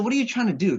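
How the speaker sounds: mock incredulous guard asking the kid; incredulous question. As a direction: press the kid, half amused.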